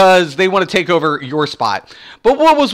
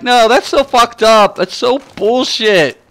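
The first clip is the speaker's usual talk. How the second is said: higher-pitched mock outrage; retold indignant anger; 5 semitones higher than usual. Husband protesting to laughing wife, retold indignation. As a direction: replay an aggrieved protest, dragging out the end. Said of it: "I was so mad that night".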